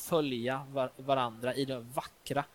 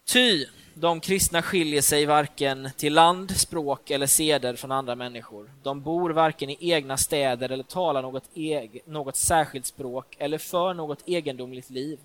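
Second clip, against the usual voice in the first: put-on louder formal reading of an old letter; reading an ancient letter aloud, solemn and louder; 7 dB louder than usual. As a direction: read it like scripture to the congregation.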